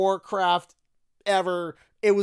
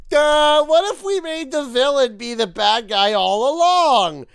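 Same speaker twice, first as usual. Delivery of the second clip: dumb writer; 2 semitones higher, 4 dB louder than usual. Retold or imitated. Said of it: "They're like".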